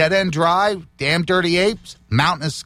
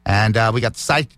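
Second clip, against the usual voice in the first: loose dentures; 5 semitones lower than usual. Real, not acted. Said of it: "my false teeth are, slipping here".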